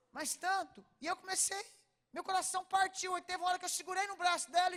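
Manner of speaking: high and loud, swelling with feeling. Real, not acted. Telling the crowd the girl's pain broke her heart, high and loud. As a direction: let the heartbreak burst out loud. Emotional climax of the story.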